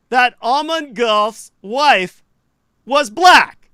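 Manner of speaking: slow down and punch "black" hard; emphatic reveal. Real, not acted. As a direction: land "black" like a bombshell. Revealing a surprising fact.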